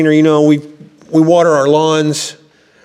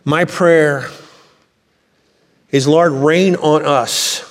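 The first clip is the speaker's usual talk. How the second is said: slow, pleading cry for rain, a bit higher; prayer; 3 semitones higher, slower than usual. Acted. Congregation praying for the Spirit to fall, slow and pleading. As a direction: lift a heartfelt plea to the Lord. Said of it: "And we say".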